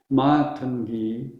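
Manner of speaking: slow "Matangi", MAA-tun-gee; long first A. Shown as a demonstration. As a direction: draw out MA in "Matangi". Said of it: "it's the opposite of that".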